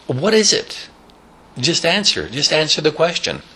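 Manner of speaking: high insistent granny; impatient old lady. Retold or imitated. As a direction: snap at him to get on with it. Stelta impatient.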